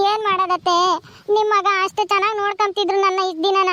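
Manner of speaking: acted weepy complaint; crying wife pouring out her hurt; tearful lament. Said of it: "ಒಂದೇ ದಿವ್ಸ ಅಳ್ತಾ ಇದ್ಯಲ್ಲೇ".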